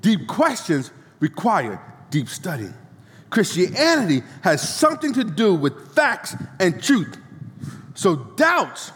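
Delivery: slow, deliberate preacher reading with weighty pauses; measured oratorical recitation, pausing between phrases; emphatic quote reading. Acted. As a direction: read it out phrase by phrase, punching key words. Reads out a quotation to congregation.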